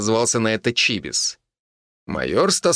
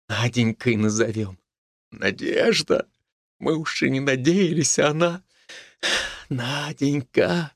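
tender, drawn out; 3 semitones higher than usual. A narrator's reading. New father naming his baby daughter, tender. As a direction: linger over the name with love. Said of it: "С теплотой в голосе тянул".

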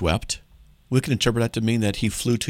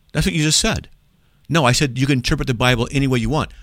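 acted argument; 4 semitones higher, 3 dB louder than usual. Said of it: "do this to them".

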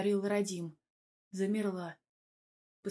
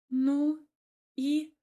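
high, louder challenge; challenging; 7 semitones higher, 6 dB louder than usual. A narrator's reading. She challenges Radim about the other man. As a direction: dare him to go on.

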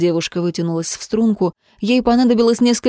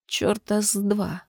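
shaky voice; 8 dB quieter, slower than usual. A narrator's reading. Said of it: "дрожащим голосом произнесла она".

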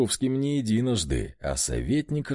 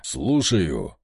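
грубый рык; 6 semitones lower than usual. A narrator's reading. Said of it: "рыкнул я похлеще Вольта".

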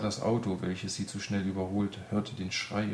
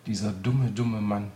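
angry; 6 dB louder than usual. A narrator's reading. Greta furious about the doctor.

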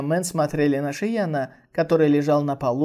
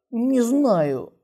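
irritated; 7 semitones higher than usual. Acted. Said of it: "раздражённо ответила Ся Синьянь".

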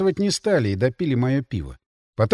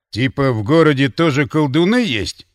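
sneering; 5 dB louder than usual. Acted. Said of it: "скривился в язвительной ухмылке Ворон".

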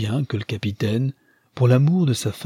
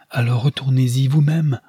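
exclaimed. Acted. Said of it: "s'écria Rosamond".

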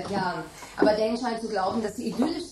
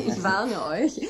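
laughing; much slower than usual. Acted. Margaret laughing, teasing hosts.

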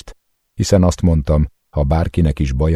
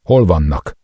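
raging demand, higher and louder; yelling like a madman; 4 semitones higher, 5 dB louder than usual. A narrator's reading. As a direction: shout the question in his face. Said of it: "Ordítozok, akár egy őrült".

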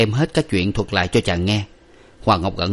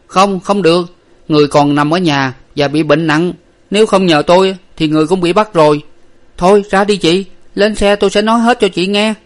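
higher, louder character voices; voiced characters; 9 semitones higher, 6 dB louder than usual. A narrator's reading. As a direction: act out the urgent exchange. Servant and wife dialogue.

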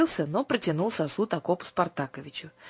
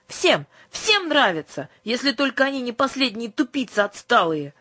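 shouting; 7 semitones higher, 4 dB louder than usual. A narrator's reading. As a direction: yell it in a childish rage. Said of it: "вдруг закричала Юлька". (с криком, медленно и выше)

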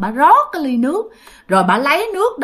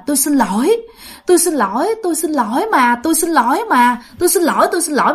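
higher, repetitive begging for forgiveness; retold fearful apology; 4 semitones higher, faster than usual. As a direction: imitate a frightened man apologizing over and over. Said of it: "Nhưng mà ổng sợ hãi". (giả giọng sợ hãi van xin)

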